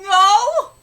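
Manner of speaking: a loud, sudden No!; sharp refusal. Acted. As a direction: cut him off hard. Character refuses, reading manga aloud.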